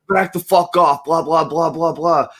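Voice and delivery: mock cop brush-off. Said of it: "They're like".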